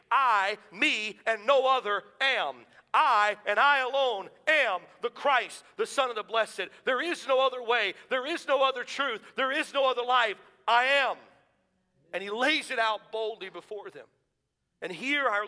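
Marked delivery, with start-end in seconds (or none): 0.1-11.2 loud ringing proclamation; bold declaration. Acted. Jesus boldly declaring himself before wicked men, loud and ringing. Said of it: "but he's saying".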